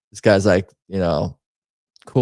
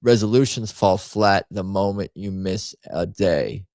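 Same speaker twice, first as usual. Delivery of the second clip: deliberate, evenly paced read-aloud; careful re-reading, word by word; slower reading. Shown as a demonstration. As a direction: read it slowly so it sinks in. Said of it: "I have to read that slower".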